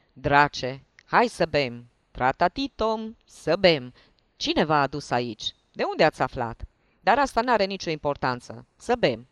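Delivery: loud, hearty tipsy host; jovial drunk. Acted. Hiding lieutenant welcomes the investigators, loud tipsy cheer. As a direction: urge them to drink, boisterously.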